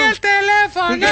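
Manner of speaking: high-pitched comic wail; mock cry. Podcaster riffing on what the crowd screamed, high mock cry. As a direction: call it out high, hammed-up.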